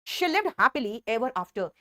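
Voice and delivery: "She lived happily ever after" read very slowly; slow, clear model sentence; slow dictation. Shown as a demonstration. Teacher reading the example sentence to students, slowly. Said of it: "happily से शुरुआत कर दूं".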